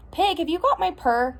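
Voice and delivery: high-pitched questioning call; calling over. A narrator's reading. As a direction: call out to Pig with a lifted voice. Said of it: "she called over the snuffling".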